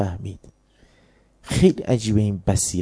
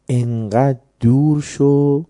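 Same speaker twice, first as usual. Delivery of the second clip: louder, slow drawn-out warning; stern command; 4 semitones higher, 5 dB louder, much slower than usual. Acted. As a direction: push him away, long and forceful. Imam warns Ubaydullah to go far.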